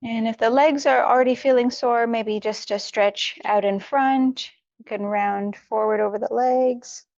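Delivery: unhurried yoga-teacher guidance with long pauses; guided meditation. Real, not acted. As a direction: gently talk them through each stretch, leaving room to breathe. Leads warm-up for meditation.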